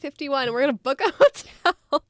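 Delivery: imagined eager person. Pretend. Imagining someone announcing an Area fifty-one trip, mock-eager. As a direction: play someone gleefully announcing a plan, amused. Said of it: "some person being like".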